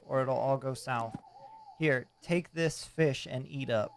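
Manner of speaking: lightly voiced old fisherman; a hint of a salty old sailor; gruff old fisherman. Voicing fisherman NPC dialogue.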